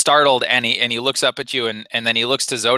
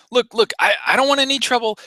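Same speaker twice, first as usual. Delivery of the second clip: high, nervous pleading; freaked out; 12 semitones higher, faster than usual. Acted. Frightened Rhodian pleads with the Wookiee. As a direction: back away, begging for no trouble. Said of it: "this guy is definitely freaked out".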